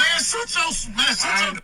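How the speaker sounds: angry. Acted. Heated argument in the car skit.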